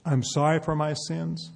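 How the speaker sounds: said out loud and steady for the crowd to repeat; full-voiced led prayer line; prayer spoken out loud. Shown as a demonstration. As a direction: lead the words "I'm sorry for my sins" clearly and slowly. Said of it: "Repeat it out loud after me".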